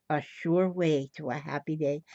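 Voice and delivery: speaking without teeth; toothless. Real, not acted. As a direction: toothless mumble. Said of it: "I ain't got no teeth in my mouth".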